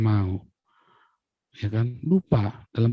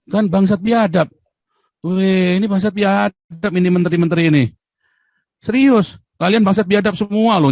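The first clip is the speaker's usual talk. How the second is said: raised, heated cursing at the ministers; angry outburst; 5 semitones higher than usual. Real, not acted. Ranting at the ministers, furious and raised. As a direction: spit out the insults in real anger. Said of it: "saya tuh emosi bener itu ya".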